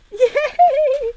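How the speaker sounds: high squealing yay; excited cheer. Real, not acted. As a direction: cheer with a laugh. Cheering thumb in glove.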